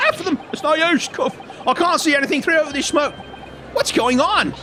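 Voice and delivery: high-pitched courtroom panic; panicked outcry. Acted. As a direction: cry out in alarm, pitched right up. Game characters panic at courtroom fire.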